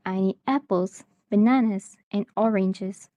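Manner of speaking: "apples" and "bananas" lifted, "oranges" falling; list intonation. Shown as a demonstration. Teacher demonstrating a list, rising then falling intonation. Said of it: "rising intonation for items in the list".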